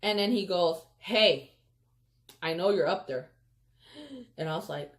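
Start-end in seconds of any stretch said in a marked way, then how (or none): 1.0-3.3 loud call up into a tree; sharp, loud "Hey" that dies down. Retold or imitated. Teacher calling up to a hidden kid, loud call.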